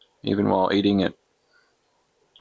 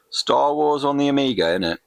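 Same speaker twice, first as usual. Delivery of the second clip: hammed-up cockney-ish English voice; mock English accent; 6 semitones higher than usual. Gamer showing off Soccer Kid in a jokey English accent. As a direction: play a cheery Brit gamer. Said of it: "Can't get out of my Soccer Kid affectation".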